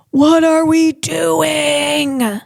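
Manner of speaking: very slow, drawn-out and pleading; long, slow despairing question; slow exasperated lament. Acted. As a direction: stretch every word in dismay.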